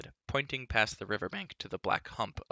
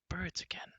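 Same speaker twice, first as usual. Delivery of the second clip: higher, softer mutter; bard muttering; 9 semitones higher, 5 dB quieter than usual. A narrator's reading. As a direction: shudder through the words. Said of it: "muttered the bard with a shudder".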